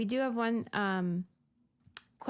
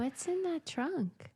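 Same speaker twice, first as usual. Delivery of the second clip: slow, higher-pitched teasing question; playful prying; 6 semitones higher, slower than usual. Real, not acted. Host presses guest about the car trunk, playful prying.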